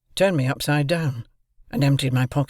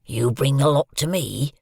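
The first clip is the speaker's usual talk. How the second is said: fearful convict threat. A narrator's reading. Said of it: "in these fearful terms".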